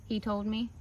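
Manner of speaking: ordinary delivery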